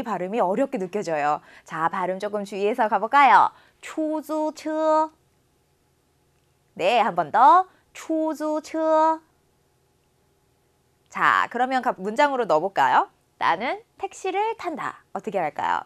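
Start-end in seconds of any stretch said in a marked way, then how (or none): 3.8-9.2 sentence read very slowly for students to repeat; slow, clear drill sentence for the class; slow model reading. Shown as a demonstration. 15.1-15.8 whisper. Real, not acted. Teacher aside.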